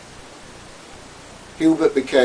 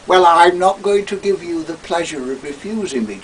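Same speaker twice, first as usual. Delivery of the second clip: Toad; 6 semitones higher, 4 dB louder than usual. Acted. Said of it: "the gloating Toad".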